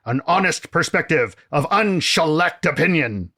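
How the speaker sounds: pompous Canadian critic voice, lightly put on; grand, self-important opening address to the listeners; a touch of a bombastic exiled film critic; Franklin Browner. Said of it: "rebuttal by noted Canadian film critic Franklin Browner".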